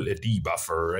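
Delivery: slight Somerset burr; Somerset accent. Real, not acted. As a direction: let a West Country Somerset lilt slip out. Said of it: "I sounded very Somerset-y when I said that".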